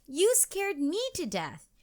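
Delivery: high-pitched, shaken-up scolding; startled exclaiming. A narrator's reading. Mom scolds Katie after the fright, high startled exclamation. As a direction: exclaim it high, without full shouting. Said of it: "shouted her mom".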